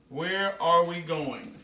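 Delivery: "where are we going" slowly, word by word; slow model sentence. Shown as a demonstration. Teacher models a child's question to Mom, slow and spaced out. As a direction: stretch each word for learners to copy. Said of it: "Can you say it with me?".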